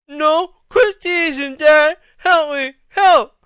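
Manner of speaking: high, loud garbled protest; muffled wail at being teased; mouth stuck. A narrator's reading. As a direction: protest slowly through frozen lips. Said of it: "Byron's mouth was frozen to the mirror".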